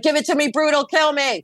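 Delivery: a hammed-up plea for brutal truth; mock dramatic. She asks the Thoth deck for brutal readings, mock dramatic. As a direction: beg for harshness, playfully theatrical. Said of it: "I pull out the Thoth deck when I'm like".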